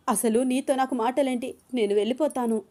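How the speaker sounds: woman refusing to talk to him; angry dismissal. Acted. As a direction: brush him off and leave. Anu still angry.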